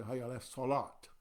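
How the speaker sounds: "Salat" ending in a hard t; "Hayya ala Salat" with a clipped final t; imitating people who end it in a t; wrong form mocked. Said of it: "And you hear people say".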